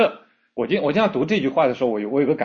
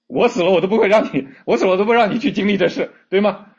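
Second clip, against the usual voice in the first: loud, fierce pleading, pushing faster on the second line; impassioned vow; 5 semitones higher, 4 dB louder than usual. Acted. Preacher playing a desperate parent refusing to let go, in a loud impassioned vow. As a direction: swear you'd die before letting your child go.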